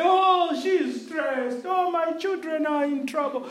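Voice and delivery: slow, drawn-out mock complaint; mock worried lament. Preacher mimicking a parent fretting over children, mock lament. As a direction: wail feebly, dragging out each worry.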